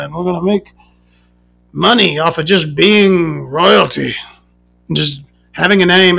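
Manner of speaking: a hint of a dopey prince; mild mocking impression of a whiny royal; mock dim Harry. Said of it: "Harry who's over there like".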